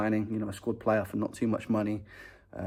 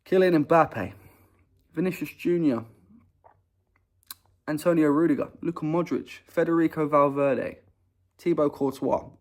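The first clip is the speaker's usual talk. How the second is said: player names in a hammed-up Spanish accent, higher; playful mock Spanish roll call; 5 semitones higher, 4 dB louder than usual. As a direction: announce each star like a Spanish stadium announcer. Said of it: "I said it in a Spanish accent".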